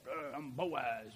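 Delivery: low, slow, heavy man's voice; big bad Boaz. Preacher imitating Boaz announcing himself in the dark, low and slow. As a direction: drop way down and drawl it like a big tough guy. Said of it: "He'd probably talk like that".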